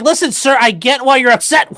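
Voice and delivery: hammed-up hostage negotiator; mock calm negotiator. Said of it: "He's like".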